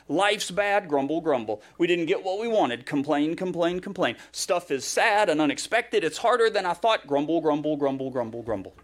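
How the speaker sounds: hammed-up complaining that sinks into grumbles; mock grumbling. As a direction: imitate moaners, lively gripe then falling mumble. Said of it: "they just complain and grumble".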